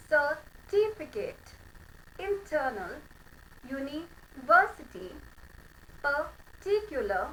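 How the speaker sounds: each word said very slowly, r dropped; slow drill. Shown as a demonstration. Teacher to class, drilled slowly with the r dropped. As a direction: drill certificate, university, particular slowly with no r. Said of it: "एक बार ये फिर से करते हैं".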